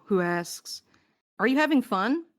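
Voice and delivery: ordinary talk, nothing marked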